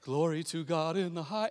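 lightly mocked choir-angel voice; hint of a dainty chorister, mock-reverent; artistic choir angel. Imitating the choir angels we misrepresent, mock choir voice. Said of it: "They're the artistic angels".

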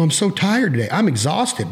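mock whining. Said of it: "bitch and go".

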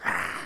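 little creature's mock screech; imitated alien screech. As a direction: screech like a tiny alien bursting out. Imitates alien bursting from chest.

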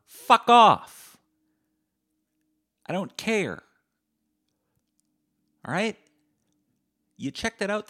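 high, loud furious rant at the haters; escalating rage, a scream on "Fuck off"; angry rant. Real, not acted. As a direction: yell them off the podcast in a rage. Ranting at critical listeners.

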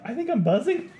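laughing quote. Retold or imitated. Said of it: "I was just like".

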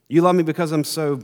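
a quick, eager hint of a squirrel child; little squirrel. Little squirrel boasting to his father, lightly voiced and eager. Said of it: "little red squirrel says".

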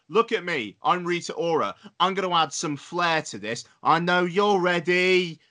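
Imitation of a singer. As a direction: ham up a self-important diva. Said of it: "she's just like".

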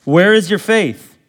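loud, high, driving sermon delivery; full-force preaching. Acted. Pastor preaching the storm passage to his church, loud and high. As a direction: preach it hard to the congregation. Preacher reading and expounding the text.

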